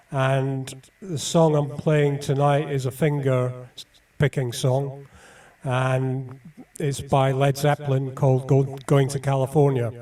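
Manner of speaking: blocked nose, nasal voice. Real, not acted. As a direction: talk through a head cold. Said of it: "you may be able to tell through my nasal voice".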